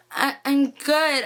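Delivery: slow, stammered reply, barely getting it out; halting, starstruck. Retold or imitated. Fan answering the actor's greeting, haltingly starstruck. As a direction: re-enact being too starstruck to speak. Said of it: "I couldn't even speak".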